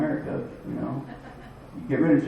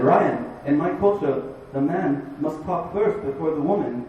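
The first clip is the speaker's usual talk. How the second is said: higher-pitched mock Vietnamese accent; bad Vietnamese accent; 4 semitones higher, 4 dB louder than usual. Vietnamese aunt explaining her culture, bad Vietnamese accent. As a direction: lay on a badly faked Vietnamese accent, emphatic. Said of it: "this is bad Vietnamese accent".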